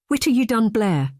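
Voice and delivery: a guarded, wary question rising high at the start. Acted. Drew, wary of Blair's news, asks guardedly. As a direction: ask it carefully, suspicious of the answer. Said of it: "Drew said in a wary tone".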